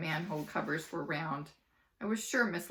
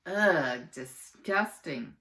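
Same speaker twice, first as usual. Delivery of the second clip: louder ugh, slow disgusted; a kid grossed out by bugs; 6 dB louder, much slower than usual. Acted. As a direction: show real disgust.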